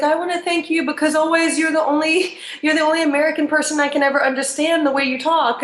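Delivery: grateful Rwandese woman's accent, lightly imitated; imitated Rwandese lady. Rwandese lady thanking her, imitated Rwandese accent. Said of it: "I had this Rwandese lady".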